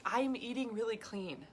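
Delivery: emphatic, mock-earnest listing, key words stretched out; frustrated insistence. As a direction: imitate exasperated dieters listing their efforts. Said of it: "the frustration that women have".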